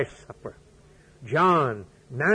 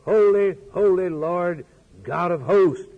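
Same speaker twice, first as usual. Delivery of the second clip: high ringing proclamation, louder and higher; crying out; 4 semitones higher, 5 dB louder than usual. A narrator's reading. Seraphims around the throne crying out praise, a loud high cry. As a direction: cry it out like angels before the throne. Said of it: "the angels and seraphims about the throne cried".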